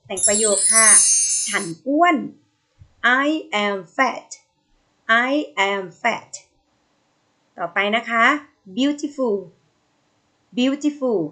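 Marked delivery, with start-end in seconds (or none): 3.2-4.3 slow, word-by-word teacher reading; slow model reading. Shown as a demonstration. Teacher reading slowly for pupils to echo. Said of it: "Say after me". 5.3-6.3 slow, even second reading; slow repeat. Shown as a demonstration. Teacher repeating slowly so pupils follow. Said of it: "Say after me".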